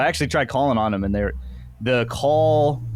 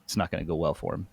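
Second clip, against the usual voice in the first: quiet menacing; 5 semitones lower, 6 dB quieter than usual. Retold or imitated. Quiet threat on the phone.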